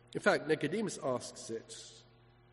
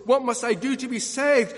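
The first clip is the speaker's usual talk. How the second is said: raised, urgent retold plea; crying out; 6 semitones higher, 6 dB louder than usual. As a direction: call out the jailer's question from the pulpit. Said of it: "crying out and asking the apostles".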